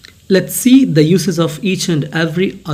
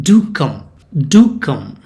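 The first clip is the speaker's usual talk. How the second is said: "Do" stressed, "come" falling after it; firm, inviting emphasis on "Do"; polite emphatic request; 4 dB louder than usual. Shown as a demonstration. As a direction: lean on "Do" as in a courteous invitation. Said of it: "asking them or requesting them politely".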